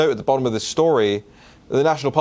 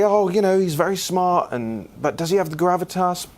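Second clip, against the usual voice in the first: higher mock voice of a sceptical listener; imitating a doubter; 6 semitones higher than usual. Host voicing a listener's doubt about his pick, higher mock voice. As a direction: play the sceptic raising an objection. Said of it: "you might say".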